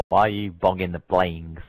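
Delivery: low-pitched mock question; put-on low voice. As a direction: drop your voice low for a silly question. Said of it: "Speaking like that".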